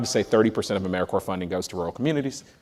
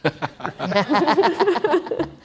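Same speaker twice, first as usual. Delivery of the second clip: a bright burst of laughter, much higher; embarrassed laugh. Real, not acted. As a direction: laugh it off before answering. Asked to start first.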